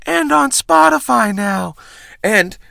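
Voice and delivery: measured host read with punched phrases; polished outro read, drawing out key phrases; scripted podcast sign-off. Acted. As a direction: deliver a rehearsed last-call bit to listeners.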